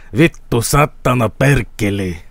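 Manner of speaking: low mock-Finnish swearing; bad Finnish accent. Streamer riffing on Finnish swear words, bad Finnish accent. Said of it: "can't even do an Finnish accent".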